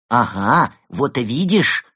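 triumphant. Acted. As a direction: crow over a proven point. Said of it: "торжествующе сказал Евгений".

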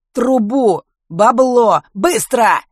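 loud, high clipped thug; hoarse thug bark. Acted. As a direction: bark curt demands like a thug. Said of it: "отрывисто проговорил хриплый голос".

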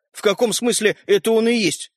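puzzled, mildly taken-aback question; bewildered. A narrator's reading. Brother questions sister's reveal, bewildered. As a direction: ask it in puzzlement. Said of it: "с недоумением спросил Родька".

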